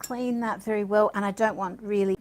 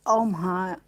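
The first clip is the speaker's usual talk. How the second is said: delighted gasp; 2 semitones higher than usual. Real, not acted. Delighted by gold ink sheen.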